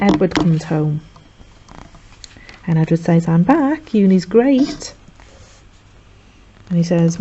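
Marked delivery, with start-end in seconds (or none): 3.3-4.9 lightly voiced carefree student. Edward voiced returning from uni.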